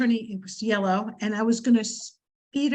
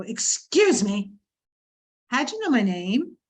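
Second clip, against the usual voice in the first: calm. Retold or imitated. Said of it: "I looked at him very calmly and go".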